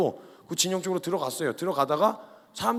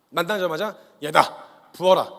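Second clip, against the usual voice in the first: commanding call; 5 dB louder, slower than usual. Acted. God ordering Samuel, a firm loud command. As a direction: bark the order to anoint.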